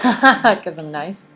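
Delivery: slow, syrupy, condescending nice voice; sweet on the surface, talking down; drawn-out fake-nice teacher tone. Shown as a demonstration. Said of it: "your nice voice is, like, kinda condescending".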